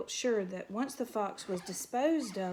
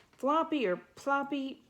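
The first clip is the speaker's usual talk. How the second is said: louder and higher, a mild bellow; 5 semitones higher, 4 dB louder than usual. A narrator's reading. Porcupine yelling at the mouse to move, bellowing. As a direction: yell the wrong names. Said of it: "Eurith bellowed".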